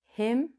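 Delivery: "him" with a short I as in sit; correct short I. Shown as a demonstration. Teacher gives learners the right him, short I. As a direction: model "him" slowly with the short vowel. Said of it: "So we say".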